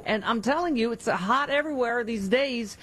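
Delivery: enthusiastic personal endorsement read; live ad read. Acted. Radio host praising bamboo sheets to listeners, upbeat ad read. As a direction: sell it like a favorite product.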